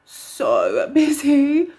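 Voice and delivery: slow laugh through the words. Real, not acted. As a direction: laugh it out, drawn out. Laughs recalling the hectic trip.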